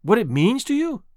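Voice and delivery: mildly heated demand. Acted. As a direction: push the question hard.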